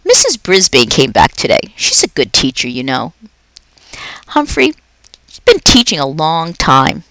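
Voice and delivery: a jolly night janitor chatting to a pet; upbeat, chatty custodian; Aldo the cheerful janitor. Acted.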